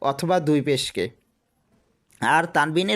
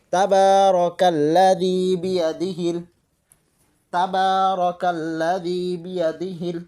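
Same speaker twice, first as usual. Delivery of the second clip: slow, drawn-out chanted recitation of the verse; slow Quran recitation; slower than usual. Shown as a demonstration. Teacher reciting the verse for students, slow and chanted. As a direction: recite it slowly, drawing out each vowel.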